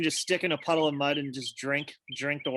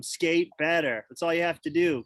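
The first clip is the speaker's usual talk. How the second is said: dismissive sister. Retold or imitated. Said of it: "where the sister says to him".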